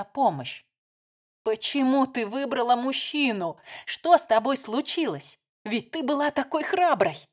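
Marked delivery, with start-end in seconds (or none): 1.4-7.2 higher, louder pleading reproach; raised voice. Acted. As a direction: raise your voice so others hear. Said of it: "повышая голос".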